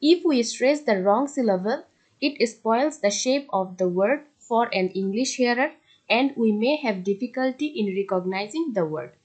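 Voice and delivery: reads the English rule out word by word; measured classroom read-aloud; slow textbook reading. Acted. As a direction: dictate it slowly to the class.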